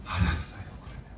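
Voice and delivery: whispered sulky surrender; resigned giving up. Retold or imitated. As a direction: give in under your breath. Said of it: "이제는 포기해요".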